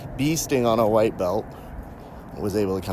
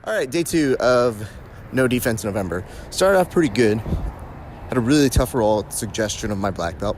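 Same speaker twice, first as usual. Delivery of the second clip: out of breath while walking; winded, talking on the move. Real, not acted. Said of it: "if I sound out of breath in these things".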